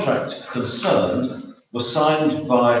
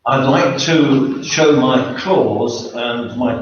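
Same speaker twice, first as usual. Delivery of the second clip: louder repeat to be heard; speaking up; 3 dB louder, slower than usual. Real, not acted. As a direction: raise your voice so the room hears. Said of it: "Can you speak up".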